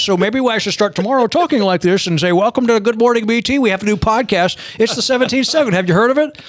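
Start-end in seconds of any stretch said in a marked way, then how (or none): 2.3-6.4 a light send-up of his own solemn host voice; mock serious radio voice. Host parodies the voice his co-host mocked, mock serious. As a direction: ham up a grave morning show intro. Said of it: "She thinks I sound like this".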